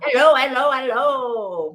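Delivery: a playful chimney-sweep Cockney hello; Cockney accent imitation; mock Cockney greeting. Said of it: "like the chimney sweep in Mary Poppins".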